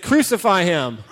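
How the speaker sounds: crowd shout. Acted. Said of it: "So shout that out".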